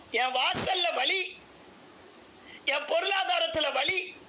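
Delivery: slow, high, drawn-out moan of pain; high, slow mock lament over troubles; whining complaint. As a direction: plead each pain like a self-pitying prayer. Voicing a self-pitying prayer.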